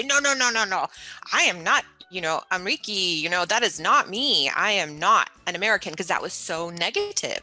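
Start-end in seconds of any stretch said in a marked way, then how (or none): 0.0-5.9 emphatic denial. Retold or imitated. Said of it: "And I would always say".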